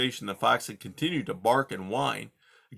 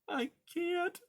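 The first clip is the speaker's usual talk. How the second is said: cried; 7 dB quieter than usual. Acted. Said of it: "Poppy cried".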